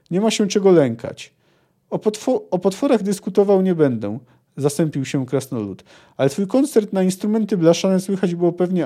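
lively audiobook-style reading of a novel passage; story reading. A narrator's reading. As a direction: read the book scene aloud with a little life in it. Reads the Okogłów scene aloud.

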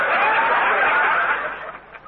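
squealing burst of laughter; high breathy laugh. Real, not acted. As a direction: crack up high. Laughing at misunderstanding.

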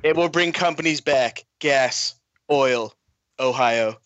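lightly voiced Trump speech; a hint of Trump at a podium; mild mock presidential address; Trump impression. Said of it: "I'll give it a shot".

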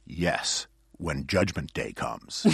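low, soft, slow deadpan reading; solemn translation. Retold or imitated. Reading the mistranslated subtitle, solemn deadpan. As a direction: sink low and slow on the grave line. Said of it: "the translation in Spanish was".

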